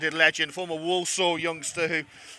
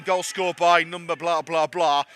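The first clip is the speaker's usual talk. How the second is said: stadium announcer voice; 3 dB louder than usual. Pretend. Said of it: "that's me doing Roy Eden's work".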